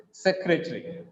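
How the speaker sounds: "secretary" as sec-re-tree; three-syllable pronunciation. Shown as a demonstration. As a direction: run the end of "secretary" into one syllable, "tree". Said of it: "When we read like this".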